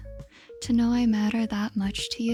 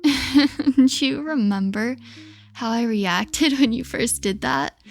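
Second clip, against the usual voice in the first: giggling through the words; laughing; 4 dB louder than usual. Acted. Laughing while recalling the yelp.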